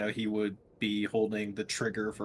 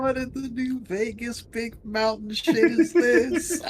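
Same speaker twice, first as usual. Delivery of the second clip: high, loud incredulous outburst; outraged disbelief; 12 semitones higher, 6 dB louder than usual. Acted. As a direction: shriek it in shocked disbelief. Player outraged at transformed character.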